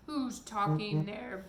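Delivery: loud, slow booming voice; booming giant. Acted. Giant booms through the door at the intruders, loud and slow. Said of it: "boomed the giant's enormous voice".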